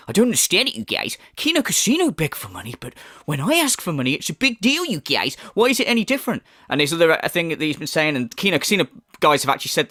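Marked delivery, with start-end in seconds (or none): 0.1-6.4 higher whiny mimicry; mocking whine. Commentator mocking the streamer's begging, whiny mimicry. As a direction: whine it like a put-upon streamer. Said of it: "He's going".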